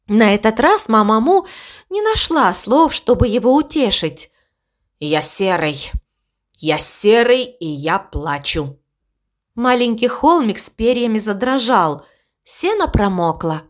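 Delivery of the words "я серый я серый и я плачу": tearful. A narrator's reading. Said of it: "Ворон плакал".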